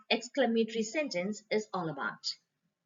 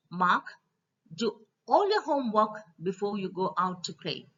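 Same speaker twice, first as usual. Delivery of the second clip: a firm, raised-voice parent's order; stern parent; 5 dB louder than usual. Acted. Parent telling Mark to do homework, stern. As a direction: lay down the law to the kid.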